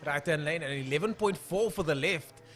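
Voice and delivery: punchy drag race commentary; brisk trackside commentator delivery; live race call. Real, not acted. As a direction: call out the times to the crowd. Calls race times live.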